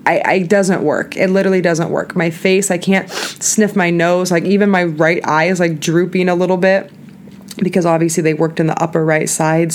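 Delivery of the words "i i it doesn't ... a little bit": numb slurred speech; words thick from anesthesia; numb mouth. Real, not acted. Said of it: "the way that I'm talking".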